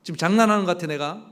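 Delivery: imagine an offended God, half-hearted scolding; mock flare of anger. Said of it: "버럭 화를 내면서".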